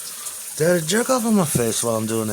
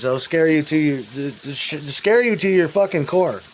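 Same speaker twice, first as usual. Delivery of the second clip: rising rant; 4 semitones higher, 3 dB louder than usual. Real, not acted. Ranting about powerful people.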